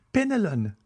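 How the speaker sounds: high-pitched mistress addressing servant; Julie's voice. A narrator's reading. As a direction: call the servant in a high, feminine voice.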